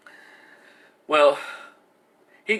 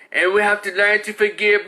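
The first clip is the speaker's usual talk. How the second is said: higher, mock-pious quote; a sanctimonious echo, a bit higher; mocking the mother; 5 semitones higher than usual. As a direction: parody her forgiveness speech.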